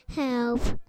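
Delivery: cartoon princess. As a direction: call out like a princess in trouble. Princess cries for help.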